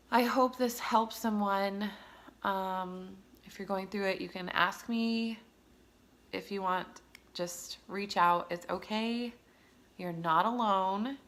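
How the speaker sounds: reach out to struggling moms gently; encouraging. Real, not acted. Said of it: "encouraging other moms".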